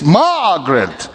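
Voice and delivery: slow drawn-out call of the name; devil's call. Retold or imitated. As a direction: stretch the name like a lure. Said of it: "the devil says".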